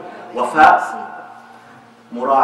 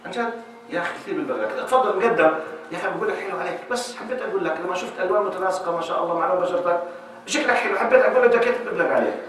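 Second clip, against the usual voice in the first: polite stranger; 4 dB quieter than usual. Retold or imitated. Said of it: "قال".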